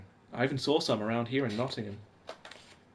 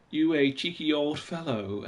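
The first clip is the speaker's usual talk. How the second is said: UK accent; 3 semitones higher than usual. Shown as a demonstration. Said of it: "that's my U K accent".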